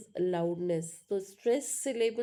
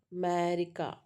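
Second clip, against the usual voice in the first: "America" with the "me" vowel held longer; teacher showing the stressed vowel in "America". Shown as a demonstration. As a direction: stretch the second syllable of "America". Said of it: "So that vowel sound".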